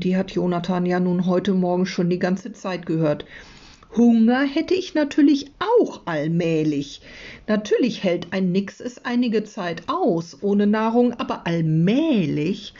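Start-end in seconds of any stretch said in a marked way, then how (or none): 4.0-12.7 higher, lightly voiced sea creature; a hint of a put-upon Nix; grumbling hungry Nix. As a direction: complain like a hungry little creature.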